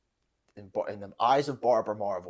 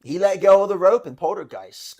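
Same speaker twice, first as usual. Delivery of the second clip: loud, high mock outrage; indignant mom; 6 semitones higher, 10 dB louder than usual. Acting out mom's reason for hating the actor, indignant. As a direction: accuse as an outraged mom would.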